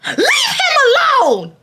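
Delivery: high, crying mock plea; mock crying nerd pleading for Romeo; whiny nerd. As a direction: whine it like a tearful nerd. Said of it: "the nerd in the front say".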